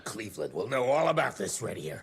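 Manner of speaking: fast, rising to a high shout; indignant shout. Acted. Harrow shouting back as he storms out.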